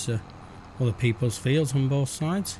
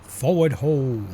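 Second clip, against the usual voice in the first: mock command; 3 semitones higher, 3 dB louder, much slower than usual. Farming game, urging vehicle on.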